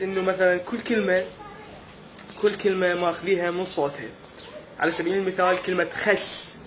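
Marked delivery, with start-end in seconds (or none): none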